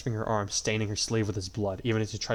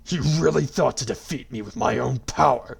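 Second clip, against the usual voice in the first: booming, mocking god voice; gloating villain; 4 semitones higher, 7 dB louder than usual. A narrator's reading. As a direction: sneer it down from on high.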